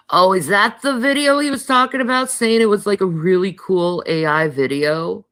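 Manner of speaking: suddenly remember it, all excited; excited high. Real, not acted. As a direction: pitch jumps way up, quick and eager. Excited recall of the video.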